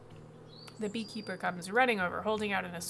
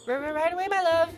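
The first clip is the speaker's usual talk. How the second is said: higher, louder nervous stutter; stammering beekeeper; 9 semitones higher, 12 dB louder than usual. Acted. Beekeeper answers his demanding queen, stammering nervously. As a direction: stumble over the words in fear.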